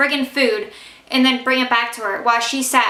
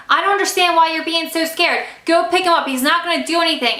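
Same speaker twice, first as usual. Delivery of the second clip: mock yell, higher pitched; retold yelling; 5 semitones higher than usual. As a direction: snap it as a half-raised retold order. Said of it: "She starts yelling at me".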